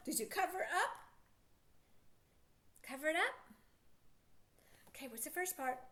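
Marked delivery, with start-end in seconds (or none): 4.9-5.8 whisper, what's the first part; whispered prompt. Shown as a demonstration. Teacher whispering a hint to young readers, whispered. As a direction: hush it like a secret clue.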